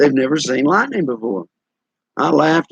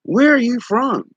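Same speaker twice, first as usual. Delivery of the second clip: curious question; 10 semitones higher, slower than usual. Retold or imitated. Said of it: "and they go".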